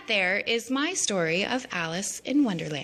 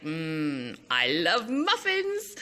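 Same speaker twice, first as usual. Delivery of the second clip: dreamy Alice; much slower than usual. Retold or imitated. Alice drooling over a muffin, slow and dreamy. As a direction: savour every word. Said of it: "she's like".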